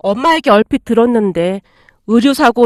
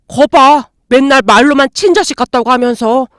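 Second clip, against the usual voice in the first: louder, resentful accusation; angry complaint; 4 dB louder than usual. Acted. Son accuses his adoptive mother over the apartment, louder and resentful. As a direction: hurl the grievance at her.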